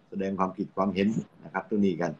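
ordinary talk, nothing marked

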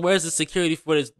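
fast, lightly voiced mock of her complaint; mocking imitation. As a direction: parrot her whining, quickly. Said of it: "Talk about some".

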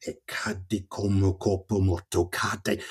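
"e cade come corpo morto cade" slow, stressed, dropping; emphatic falling line. Shown as a demonstration. Reader shows the listener the emphatic fall of the line, slow and weighty. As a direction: drop each word as if falling. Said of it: "the kind of emphatic falling down".

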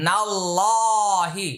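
নাল্লাহি with a thick heavy লা, stretched one alif; heavy lam, one alif. Shown as a demonstration. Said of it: "এটা এক আলিফ টান হবে, মোটা হবে". (নাল্লাহি মোটা লাম, এক আলিফ টেনে)

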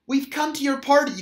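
calling out loud and high. Acted. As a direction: call it across the hill. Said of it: "they called".

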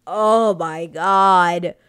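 stunned whisper. Retold or imitated. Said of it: "I was like".

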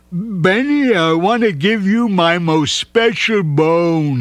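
slow, proud dog; a hint of puppy voice; lightly voiced Smuggles. A narrator's reading. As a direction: offer it as a treasure. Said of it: "he said".

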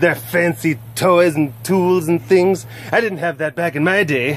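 lightly voiced cranky elder; grumpy old-timer voice. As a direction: complain like a grandma about kids today. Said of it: "cat as grumpy elder".

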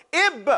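"Ib" with the b firmly closed, then released; controlled stop. Shown as a demonstration. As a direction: keep "Ib" strong and contained on the b. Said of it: "You control it".

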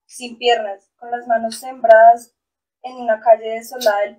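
measured poem reading with pauses between phrases; poem recitation. Acted. Poet reading a testimonial poem to listeners, solemn recitation. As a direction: recite it line by line, stressing key words.

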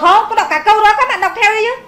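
high, loud, laughing protest; laughing exasperation. Real, not acted. Teacher laughs as she tells the class to read along. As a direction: laugh it off while scolding a little.

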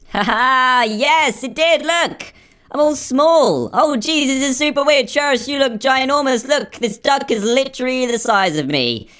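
high-pitched tiny character voice; shrunken weird voice. Pretend. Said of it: "My voice sounds weird as well".

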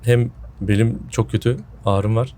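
sore-throated, under the weather; sick voice. Real, not acted. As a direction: speak like you're coming down with a cold. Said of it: "Kusura bakmayın hani sesim falan garip geliyorsa".

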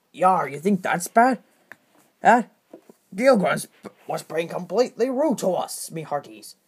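pirate voice. Acted. Pirate character speaks.

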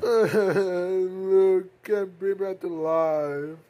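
put-on sobbing lament; acted grief. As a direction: cry as you mourn the dead. Grieving over the dead Luke.

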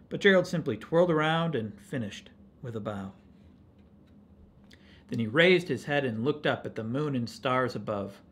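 storytelling winding down to the ending; story read to children. A narrator's reading. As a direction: bring the tale gently down for young listeners.

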